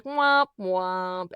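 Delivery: mock "womp womp" of failure; imitated sad trombone. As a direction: voice a comic flop sound.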